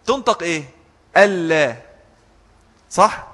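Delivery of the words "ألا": "ألا" as al-la, doubled l and no n; idgham. Shown as a demonstration. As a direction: melt the nun fully into the lam in ألا. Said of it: "فيها إدغام".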